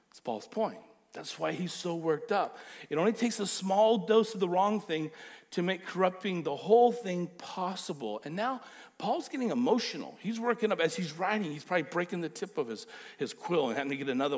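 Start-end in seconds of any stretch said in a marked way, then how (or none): 2.9-8.2 louder, pressing each word home; emphatic repeat. Shown as a demonstration. Pastor repeats Paul's warning to the church, louder. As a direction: drive the warning hard.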